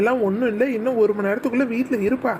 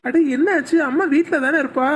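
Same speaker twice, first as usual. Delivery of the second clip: alarmed concern; 4 semitones higher than usual. Acted. Father alarmed again.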